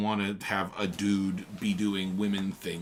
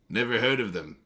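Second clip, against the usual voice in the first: decisive; 3 semitones higher, 5 dB louder than usual. Acted. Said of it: "he remarked decisively".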